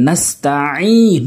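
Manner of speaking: "নাস্তাইন" with the ain squeezed in the throat; pressed ain. Shown as a demonstration. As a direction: press hard on the last syllable of "নাস্তাইন". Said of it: "চাপ দিয়ে বলবেন".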